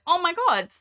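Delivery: retold squeal of recognition, high and loud; excited gasp. To her boyfriend on seeing the castle, high excited squeal. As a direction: gush like spotting a favourite place. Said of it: "I was like".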